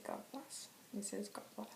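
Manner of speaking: breathy whispered God bless. Real, not acted. Soft sign-off blessing.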